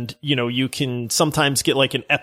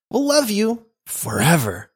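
creepy; 4 semitones higher than usual. Acted. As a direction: purr it like a stalker fan. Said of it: "what do you mean I sound creepy?".

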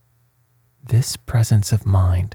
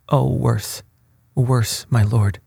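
higher-pitched, mildly frightened protest; crying out; 4 semitones higher, slower than usual. A narrator's reading. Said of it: "cried Diego".

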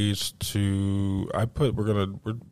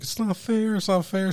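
high-pitched mock whine; imitated whining kid; 11 semitones higher than usual. Kid on the floor protests losing, mock whine. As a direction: plead like a sulking child. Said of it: "Boo-hoo fucking crying".

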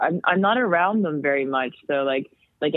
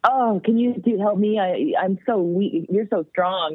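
hammed-up helpless voice, a little higher; mock weak; 4 semitones higher than usual. Grown-up pretending to be weak so the toddler helps, mock helpless. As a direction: pretend to be too feeble to lift it. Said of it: "pretending that I was too weak".

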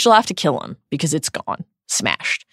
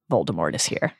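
high, cold voice; 11 semitones lower, 6 dB quieter than usual. Acted. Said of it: "said a high, cold voice".

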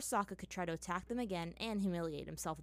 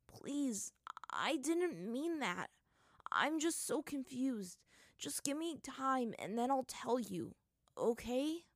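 hurt; 5 semitones higher, slower than usual. Acted. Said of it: "his voice was hurt".

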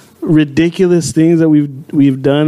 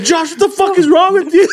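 laughing outrage; 11 semitones higher than usual. Retold or imitated. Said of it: "I was like".

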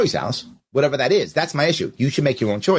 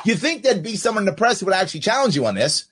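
laughing; 4 semitones higher, faster than usual. Real, not acted. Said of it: "I'm making myself laugh".

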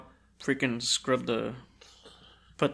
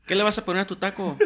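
mom voice, laughing; 7 semitones higher, 3 dB louder, much faster than usual. Retold or imitated. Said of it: "whenever my mom's like".

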